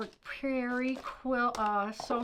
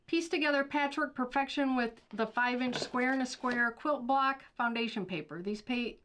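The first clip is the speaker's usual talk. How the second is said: ad read; 3 semitones higher than usual. Acted. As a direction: sell it like a shopping channel host. Reads product ad copy.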